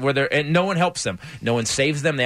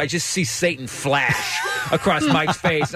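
laughing; slower than usual. Real, not acted. Laughing while telling.

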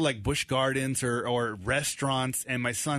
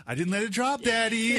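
put-on proud little boy; 8 semitones higher than usual. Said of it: "he goes".

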